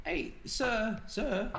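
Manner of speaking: half yell, half whisper; stage whisper. Acted. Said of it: "yell, but also whisper".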